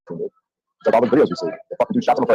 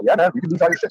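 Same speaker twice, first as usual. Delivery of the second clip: tough love; 7 semitones higher than usual. Retold or imitated. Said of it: "giving him tough love".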